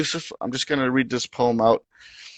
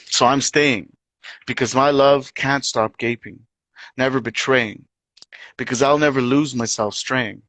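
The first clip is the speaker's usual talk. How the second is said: poetry reading. Acted. Resumes the poem.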